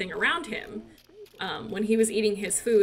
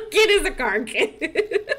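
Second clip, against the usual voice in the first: put-on slow Boston car kid, car as cah; hammed-up Boston drawl through laughter; Boston accent; 5 semitones higher, 6 dB louder, slower than usual. Mock Boston accent of son.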